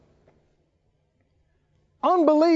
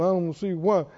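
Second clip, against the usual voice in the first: fast, mock self-pitying complaint; a touch of a sulky grumbler; imitating the whiny complainer; grumbling whine; 3 semitones lower than usual.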